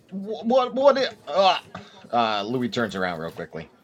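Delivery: high, loud startled yelp. Acted. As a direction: jump at the surprise hug. Louis startled by hug.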